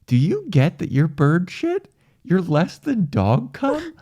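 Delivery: high taunting god; mocking god voice. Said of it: "God is like".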